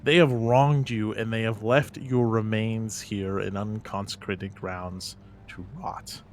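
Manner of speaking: loud, slow, stately appeal to a ghost; impassioned address. Acted. To the ghost Oscar over his bones, loud impassioned plea. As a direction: proclaim it to the spirit, full voice.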